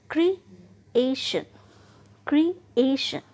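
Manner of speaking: ए in क्रिएशन stretched and punched loud; stress on second syllable. Shown as a demonstration. Teacher modelling word stress, क्रिएशन with a long, loud ए. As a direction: break क्रिएशन after क्रि, then drag out the ए forcefully. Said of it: "खींच कर बोल रहे हैं".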